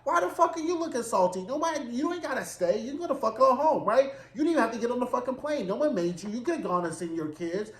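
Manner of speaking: high-pitched incredulous scolding, fast in places; exasperated rant at a sulking guest, pitched well up; mock exasperated rant. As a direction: tell him off like a fed-up friend. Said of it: "And I was like".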